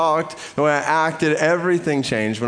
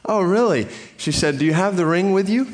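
curious store lady quizzing him, lightly voiced; clerk's eager question; 7 semitones higher than usual. Clerk asking the nervous young man, pitched up.

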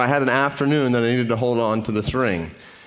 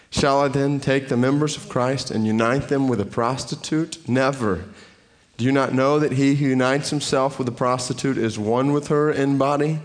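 scripture reading. Acted. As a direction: read the passage with weight. Pastor reads a scripture passage.

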